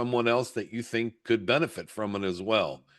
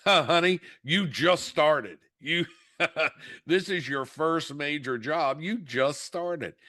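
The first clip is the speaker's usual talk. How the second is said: higher, laughing, slow you just started; amused mother; 5 semitones higher, slower than usual. Retold or imitated. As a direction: chuckle at a rookie's impatience.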